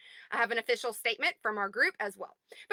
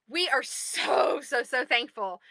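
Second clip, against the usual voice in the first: slow, whispered gratitude; whispered thanks; slower than usual. Real, not acted. Thanking followers for the miracle, whispered. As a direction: breathe it out, deeply thankful.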